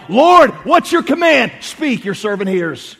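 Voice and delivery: high, loud, slow plea to God; fervent prayer. Acted. Preacher models a prayer in difficulty, loud and fervent. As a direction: call up to God, drawn out.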